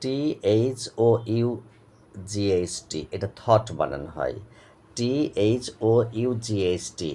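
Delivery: fast letter-by-letter spelling. Shown as a demonstration. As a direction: rattle off the letters. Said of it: "স্পেলিংটা কী হবে?". (দ্রুত বানান বলা)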